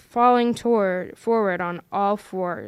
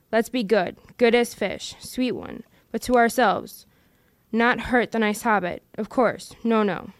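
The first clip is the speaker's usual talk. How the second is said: a lightly voiced Gollum, scheming and wheedling. Gollum arguing with himself over the ring, in a scheming wheedle. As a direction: Gollum muttering to his precious, coaxing himself.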